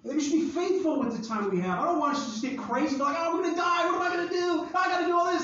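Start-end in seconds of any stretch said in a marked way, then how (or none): 3.2-5.4 higher, hurried, hammed-up worry; mock frantic. Someone panicking about their few days left, mock frantic. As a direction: parody a panicked person, lightly. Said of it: "some frantic".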